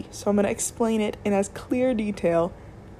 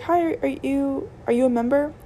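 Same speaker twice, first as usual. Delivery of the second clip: bright, higher cashier greeting, slowed a little; customer service voice; 6 semitones higher than usual. Acted. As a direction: put on the cheerful register voice for the shopper.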